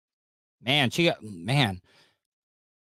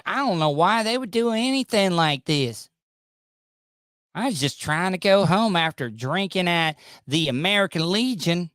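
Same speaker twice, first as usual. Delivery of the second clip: mock Southern victim; 3 semitones higher than usual. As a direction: mimic her protests in a mocking retelling. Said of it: "Because of stories like this".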